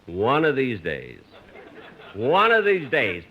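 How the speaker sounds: slow mock threat, Gleason style; Jackie Gleason. The speaker mimics Gleason threatening Mary. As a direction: growl it slowly like Gleason's catchphrase. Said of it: "if I were Jackie Gleason".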